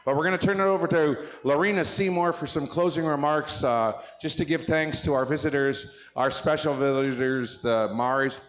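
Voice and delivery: talking around chewing gum; chewing gum while speaking; mouth full. Real, not acted. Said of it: "I got gum in my mouth, I'm stuttering around here".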